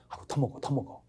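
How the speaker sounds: softly coaxing, an acted host.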